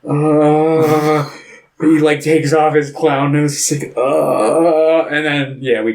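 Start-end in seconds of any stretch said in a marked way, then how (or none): 0.1-1.3 higher, long drawn-out 'uh'; imitated clueless groan. Lost cab driver alone at the wheel, clueless droning. 4.0-5.1 higher, long drawn-out 'uh'; imitated clueless groan. Lost cab driver alone at the wheel, clueless droning.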